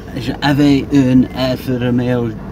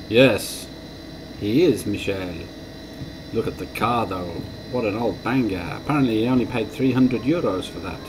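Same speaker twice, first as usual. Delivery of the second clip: lightly voiced French lady in a softer mock accent; terrible French accent; 4 dB quieter than usual. French lady sneers at the old car, light mock French accent. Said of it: "my terrible French accent".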